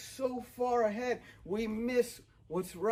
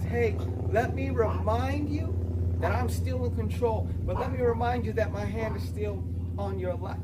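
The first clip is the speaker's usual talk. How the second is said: louder, raised, emphatic declaration; voicing Jesus, proclaiming; 6 dB louder than usual. Preacher voicing Jesus to a hopeless world, loud and emphatic. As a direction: proclaim it like Jesus stepping in with authority. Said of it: "Jesus comes in and says".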